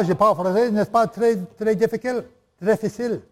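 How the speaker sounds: lightly put-on French accent. Shown as a demonstration. Preacher showing how to practise French, in a light French accent. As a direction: give the words a touch of French. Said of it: "put the accents wherever the French words".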